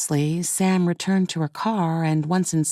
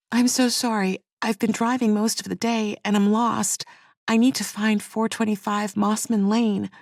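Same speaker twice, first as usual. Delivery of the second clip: higher, faking a little sob; fake sobbing; 4 semitones higher than usual. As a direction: play it teary to get sympathy. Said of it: "She sobbed a little".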